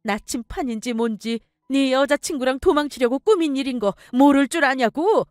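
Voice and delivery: mother exposes her son's scheme; mother's furious reproach. Acted. Mother confronts scheming son. (엄마가 분노하며 호통치듯)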